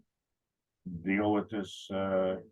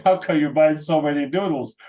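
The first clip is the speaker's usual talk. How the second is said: mock surprised clerk; 6 semitones higher, 8 dB louder than usual. Cashier quizzes noodle buyer.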